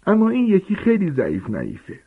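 high, put-on voice of a fussy aunt; aunt praising her nephew at dinner in a high, put-on voice; aunt Marge voice. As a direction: play the doting old aunt, pitched high.

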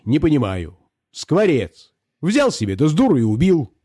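a hint of a pompous squire scolding; scolding master. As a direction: lecture the poacher with mock outrage. Volchkov scolds the peasant. (барин отчитывает мужика, слегка сердито)

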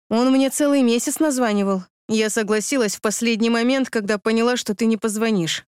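a hint of a hurt young woman; hurt girl. Ex-girlfriend reproaching him at the party, lightly voiced hurt girl.

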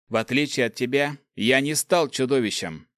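tight, through gritted teeth. Acted. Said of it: "сквозь зубы произнёс я".

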